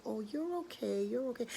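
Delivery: soft, soothing reassurance; comforting. Acted. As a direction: hush a frightened little bird. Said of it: "began to just comfort him".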